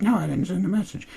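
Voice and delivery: high squeaky squabbling voice; mock denial. Host acting Zoe denying it to Audrey, mock falsetto. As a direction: deny it in mocking falsetto. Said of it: "She's like".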